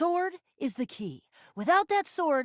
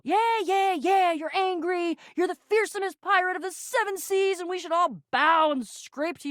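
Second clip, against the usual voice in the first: high mocking placation; 5 semitones higher than usual. Mocking the fearsome pirate's anger, sarcastic. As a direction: brush off the big tough talk.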